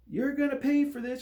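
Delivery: high, loud furious threat; angry threat. A narrator's reading. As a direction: spit out the threat. Angry threat after bumping table.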